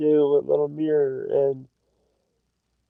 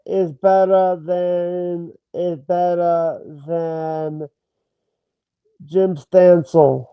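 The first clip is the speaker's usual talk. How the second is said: drawn-out restatement; slower than usual. Shown as a demonstration. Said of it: "say it in a different accent".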